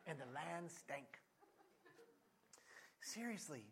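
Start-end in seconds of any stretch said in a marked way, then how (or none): 0.1-1.2 and the land stank, slow with a laugh; laughing repeat. Real, not acted. Preacher repeating the verse for laughs, chuckling. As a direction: repeat it amused, slowly. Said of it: "That's a good bumper sticker".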